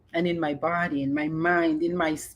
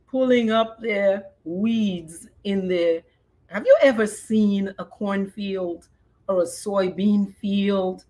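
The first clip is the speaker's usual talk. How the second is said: ordinary talk, nothing marked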